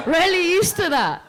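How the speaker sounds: laughing through the words, pitch jumping high. Real, not acted. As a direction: giggle the line out, embarrassed. Embarrassed laugh mid-sentence.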